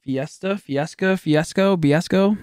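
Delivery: fiasco toyed with, rising each time; rolling fiasco around into biasco; playing with the word. Shown as a demonstration. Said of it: "that whole fiasco".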